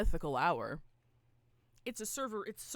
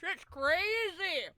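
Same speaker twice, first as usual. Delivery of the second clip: excited; 8 semitones higher, 4 dB louder, much slower than usual. Real, not acted. Hyped reaction to trailer.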